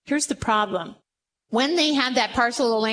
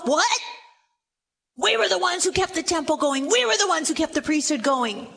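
indignant protest; 3 semitones higher than usual. Acted. Southern kingdom voiced indignant.

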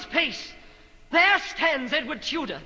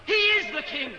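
raised, urgent warning; forceful command; 6 semitones higher than usual. Acted. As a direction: stop them with a sharp warning. Forbidding guards to touch king.

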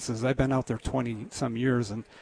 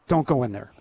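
raised-voice call, louder on the words; a mock yell, retelling a sudden outburst; retold yell; 6 dB louder than usual. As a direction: call out a warning, only half yelling. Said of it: "I just yelled out".

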